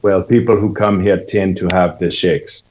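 Jamaican-sounding accent. Shown as a demonstration. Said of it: "Now, now it sounds Jamaican".

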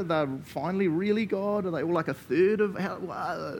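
playfully baffled, pitch up; mock confusion. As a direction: act out someone tying themselves in knots. Voicing confusion over the Trinity.

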